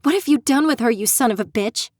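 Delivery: cursing him out at full voice. Acted. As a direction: yell it at him in outrage. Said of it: "raising my voice".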